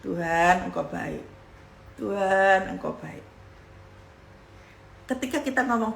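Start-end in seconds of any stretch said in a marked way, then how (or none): 0.0-3.2 murmured low to one's own soul; intimate self-talk. Retold or imitated. Preacher talking to his own soul, low and intimate. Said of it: "ngomong pada jiwa sendiri".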